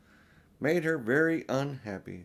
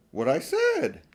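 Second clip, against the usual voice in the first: put-on higher, eager girl's voice; Lucy protesting, higher and urgent; young Lucy; 4 dB louder, slower than usual. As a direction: plead like an earnest little girl. Lucy answering Peter.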